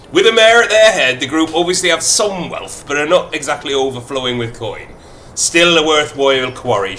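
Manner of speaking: reading the game text in a light Irish lilt; storyteller's Irish brogue; Irish accent. Acted. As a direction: narrate in a mild put-on Irish accent. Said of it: "Full Irish".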